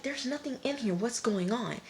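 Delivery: high-pitched acted confusion; baffled. Women opening the boxes, baffled. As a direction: raise the voice in puzzled disbelief.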